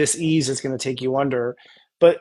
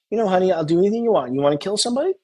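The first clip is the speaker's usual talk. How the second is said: ridiculous indulgent voice; 4 semitones higher, faster than usual. Retold or imitated. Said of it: "like, ridiculous".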